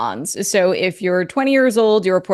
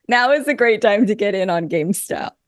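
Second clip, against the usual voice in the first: mock serious. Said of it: "I can't say this with a straight face".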